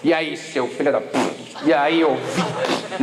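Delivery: put-on low, rough teen greeting; low slangy insult-greeting among boys; mock swearing greeting. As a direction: toss it off like a cocky kid greeting a buddy. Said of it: "a gente se cumprimentava com palavrão".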